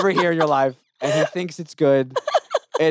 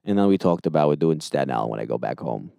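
low-pitched Staten Island accent; 9 semitones lower than usual. Shown as a demonstration. Comic bragging about going back home, Staten Island accent. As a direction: drop low into homecoming Staten Island talk. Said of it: "start talking more like that".

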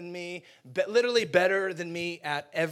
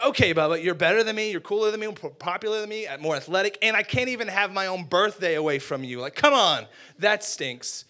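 mock-exasperated kid griping, louder; exasperated complaint; 6 dB louder than usual. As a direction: rattle off an indignant grievance. Acted childhood complaint to brother.

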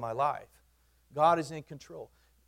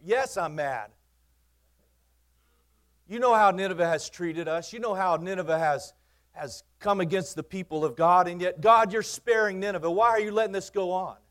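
raised, higher indignant protest to God; a higher, louder complaint from Jonah, furious at the mercy shown; angry Jonah; 5 semitones higher, 6 dB louder than usual. Acted. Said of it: "he's furious, he's mad".

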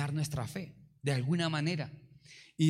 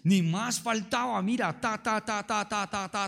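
firm, authoritative; 4 semitones higher than usual. Retold or imitated. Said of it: "con firmeza y con autoridad".

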